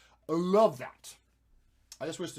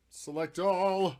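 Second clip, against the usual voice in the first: drawn out; 5 semitones higher, 6 dB louder, much slower than usual. Pretend. Drawn out command.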